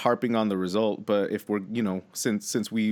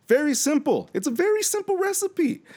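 emphatic. Real, not acted. Emphatic point in argument.

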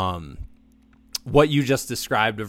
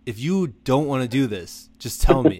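earnest polite reassurance, a bit louder; Midwestern nice; 4 dB louder than usual. Retold or imitated. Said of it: "Midwestern nice thing".

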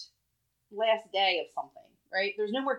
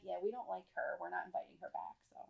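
snooty PTA mom; 3 semitones lower, 18 dB quieter than usual. Retold or imitated. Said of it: "it'd be like".

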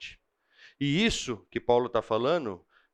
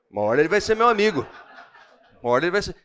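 quick, laughing promise, louder; 3 semitones higher, 4 dB louder, much faster than usual. Retold or imitated. A preacher laughs while telling his wife the man will be his friend. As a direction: chuckle it out fast, half joking.

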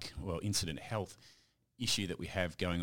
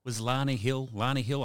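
upbeat welcome; 6 semitones higher, 5 dB louder than usual. Real, not acted. Host opens show energetically.

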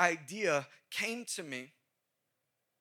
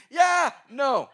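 mock girl voice; 6 semitones higher, 11 dB louder than usual. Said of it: "repeats her quote".

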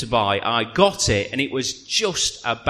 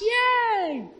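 yay; 4 dB quieter than usual. Pretend. Mock cheer at cut grass.

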